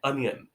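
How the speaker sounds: अनियन with open first vowel, stress first syllable; correct onion. Shown as a demonstration. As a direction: say अनियन as AH-nyun, clear "uh-nyun". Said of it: "इसका actual pronunciation होता है अनियन".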